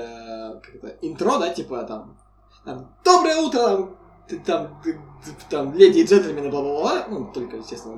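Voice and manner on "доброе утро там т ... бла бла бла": loud Irish YouTuber intro shout; Irish accent. Retold or imitated. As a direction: boom it out like an Irish gamer. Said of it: "на английском с ирландским акцентом". (громкое интро с ирландским акцентом)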